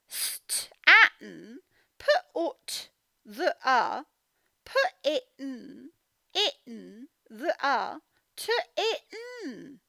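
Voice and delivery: sounding out through giggles; laughing. Real, not acted. Teacher giggling while sounding out the words. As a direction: stumble over the words laughing. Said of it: "giggling sounding out".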